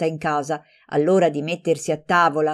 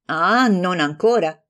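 defiant shrug; 3 dB louder than usual. Acted. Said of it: "facendo una spallata".

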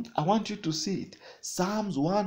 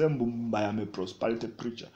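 mocking critic; 5 semitones lower, 3 dB quieter than usual. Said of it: "let them say".

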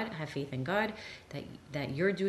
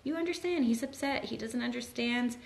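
gentle empathetic parent; 8 semitones higher than usual. Retold or imitated. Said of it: "You're like".

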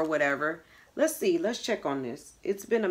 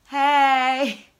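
gloating; 4 semitones higher, 3 dB louder, much slower than usual. Real, not acted. Mom gloats after fooling child.

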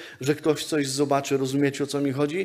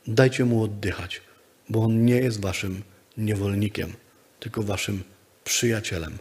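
gentle Jesus; 4 semitones lower than usual. Acted. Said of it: "Pan Jezus mówi".

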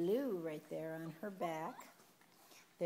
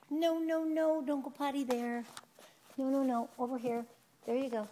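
louder, higher urgent no no no; firm no; 6 semitones higher, 6 dB louder than usual. Real, not acted. Owner stopping puppy Max going potty, firm louder. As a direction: stop the puppy before it goes.

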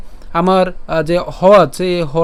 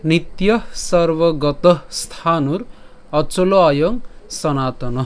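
slow, measured Sanskrit verse recitation; drawn-out, carefully separated syllables; shloka recitation; much slower than usual. Shown as a demonstration. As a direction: recite word by word with pauses between. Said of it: "আজকের শ্লোকটি হলো".

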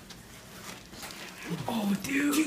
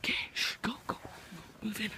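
whispering; faster than usual. Pretend. Sneaking into a house.

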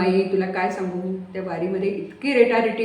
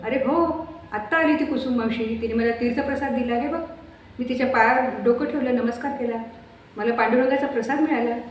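put-on higher, eager old woman's voice; Mai insisting; 5 semitones higher than usual. Mai tells her son about Kusum's visit, eagerly insisting. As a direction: insist joyfully it truly happened.

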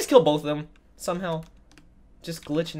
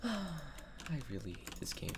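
defeated sigh; 22 dB quieter, slower than usual. Real, not acted. Sighing defeat after mistake.

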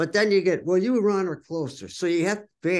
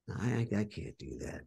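stammered, much softer protest; hesitant refusal; 6 semitones lower, 10 dB quieter than usual. Retold or imitated. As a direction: falter and drop almost to nothing. Reluctant, retelling his own refusal.

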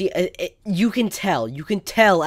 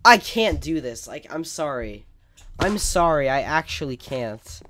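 mock despair; 4 dB louder, slower than usual. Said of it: "some of it was probably on purpose".

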